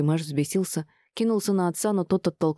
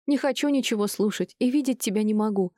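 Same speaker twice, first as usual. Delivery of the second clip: higher, tearful outburst; shouting at father; 6 semitones higher than usual. A narrator's reading. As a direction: throw it in his face. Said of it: "крикнула ему в лицо дочь". (дочь кричит отцу в лицо)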